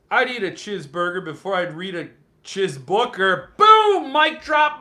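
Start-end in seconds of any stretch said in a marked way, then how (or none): 3.6-4.8 mic drop cheer. Real, not acted.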